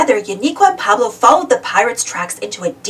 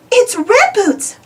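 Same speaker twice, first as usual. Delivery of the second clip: high, slow, trembling fright; shivering fear; 11 semitones higher, slower than usual. A narrator's reading. Campers realising the ghost is near, shivering. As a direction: shiver the name out. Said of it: "they said, shivering".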